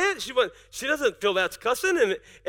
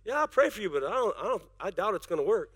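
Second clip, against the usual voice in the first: doubting pastor; 5 semitones lower, 7 dB quieter than usual. Pretend. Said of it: "And I go".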